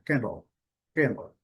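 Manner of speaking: "Candle" stressed on the first syllable, second very weak; "Candle" as strong-weak, two syllables. Shown as a demonstration. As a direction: punch the start of "Candle", let the ending fade. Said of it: "uma mais forte e a outra bem fraca".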